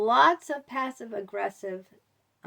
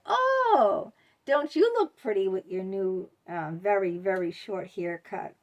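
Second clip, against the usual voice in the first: insincere compliment; 3 dB louder than usual. Retold or imitated. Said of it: "a voice that it doesn't come across as sincere".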